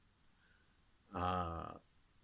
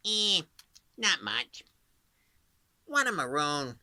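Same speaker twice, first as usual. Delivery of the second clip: Bugs Bunny; 6 semitones higher, 6 dB louder than usual. Retold or imitated. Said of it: "like Bugs Bunny".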